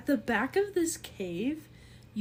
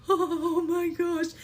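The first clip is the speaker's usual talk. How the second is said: slow, higher, awed oh my gosh; slow amazement; 7 semitones higher, 5 dB louder, much slower than usual. Acted. Harrington turning around, slowly stunned. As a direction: draw it out in wonder. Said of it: "and he's like".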